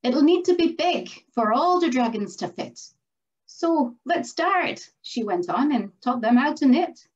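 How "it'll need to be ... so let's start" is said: firm. Acted. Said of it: "she said more firmly".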